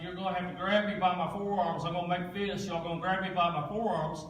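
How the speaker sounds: steady, even, unbothered instructions; calm and normal. Retold or imitated. Injured man calmly instructs family to pull him out, even and normal. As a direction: keep it calm as if nothing's wrong. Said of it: "I'm talking just like this, just as normal as could be".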